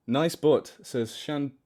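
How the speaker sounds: put-on Australian accent, talking through the teeth; mock-Australian, teeth barely apart. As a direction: do amateur Australian with teeth held close. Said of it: "Maybe if I talk through my teeth".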